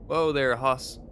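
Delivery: a grizzled Western sidekick, slow and loud; old cowboy drawl. Acted. A cowboy sidekick greeting the dinosaur, slow old Western drawl. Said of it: "Gabby doesn't talk like that".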